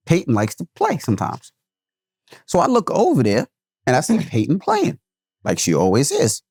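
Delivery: normal talking voice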